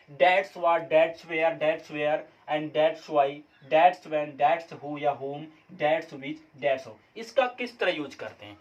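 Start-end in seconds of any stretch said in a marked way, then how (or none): 0.1-4.3 drawn out phrase by phrase; very slow listing. Shown as a demonstration. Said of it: "देखिए क्या usage है". 4.4-6.9 very slow listing. Shown as a demonstration. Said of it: "देखिए क्या usage है".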